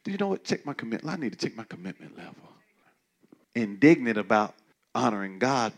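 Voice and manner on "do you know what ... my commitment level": voicing a realization. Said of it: "it's pointing out".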